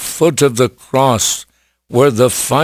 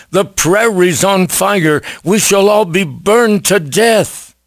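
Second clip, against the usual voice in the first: higher-pitched mock shout, little added volume; retold alarmed shout; 6 semitones higher than usual. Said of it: "Somebody shouted".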